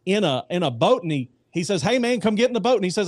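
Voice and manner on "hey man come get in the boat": joke boatman call. Acted.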